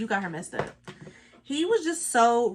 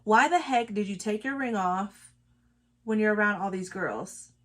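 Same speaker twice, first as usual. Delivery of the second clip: self-corrected clean version. Shown as a demonstration. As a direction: swear swapped for "heck", said evenly.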